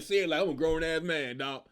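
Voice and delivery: a hint of a grown man brushing it off; mock reply. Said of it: "They all reply like".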